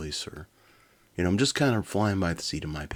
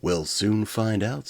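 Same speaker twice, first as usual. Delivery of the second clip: chuckling scientist; 4 semitones higher, 5 dB louder than usual. Acted. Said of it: "with a chuckle".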